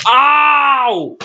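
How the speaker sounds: high, drawn-out play wail; mock pain cry. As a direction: cry out as if hurt. Wrestler hurt in play match.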